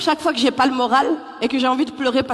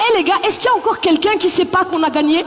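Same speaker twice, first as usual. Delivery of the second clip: excited fan; 5 semitones higher than usual. Retold or imitated. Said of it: "Ça veut dire".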